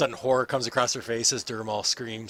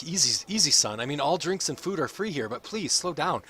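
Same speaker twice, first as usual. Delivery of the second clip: higher, lightly voiced, motherly warning; worried innkeeper; 5 semitones higher, 4 dB louder than usual. Innkeeper warning the dwarf off the stout, lightly voiced and worried.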